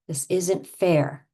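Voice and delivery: slow, emphatic pretend protest; mock indignant complaint; over-the-top indignation. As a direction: play up the grievance, stretching the words. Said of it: "we're gonna go over the top".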